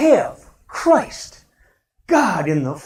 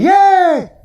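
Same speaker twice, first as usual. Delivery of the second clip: high, bright cheer of welcome; famous yay; 10 semitones higher, 5 dB louder than usual. Shown as a demonstration. Pastor showing the congregation his famous greeting yell. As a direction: cheer it out like you're thrilled to see them. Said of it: "She doesn't understand".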